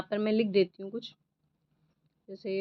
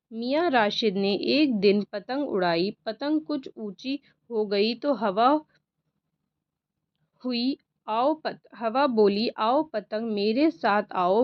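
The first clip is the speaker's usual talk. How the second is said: louder, slow storybook reading of the kite tale; reading to children; 4 dB louder, slower than usual. Acted. Teacher reads the wind and kite story to pupils, slow and loud. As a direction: read it out to the class, slowly and clearly. Reads the copying passage aloud.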